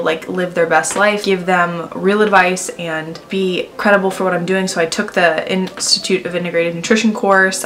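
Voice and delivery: lips held stiff, small movements; talking with tight drying mask; through a stiff face mask. Real, not acted. Seen 0: Black peel-off mask covers face around mouth throughout; absent in R frames.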